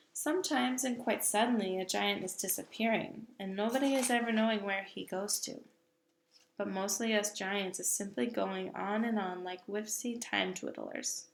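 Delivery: a hint of a booming giant, firm and sure; lightly voiced big friendly giant. Giant lectures the little girl about giants, lightly voiced.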